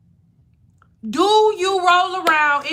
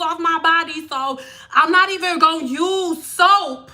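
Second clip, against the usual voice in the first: mocking imitation; 2 semitones higher than usual. Mocking people who skip soap, lightly put-on voice. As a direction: mimic someone smugly explaining their no-soap routine. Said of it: "That is how y'all sound".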